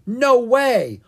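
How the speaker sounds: high, loud protest; yelled refusal. A narrator's reading. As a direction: shout a flat-out refusal. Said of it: "Owen yelled".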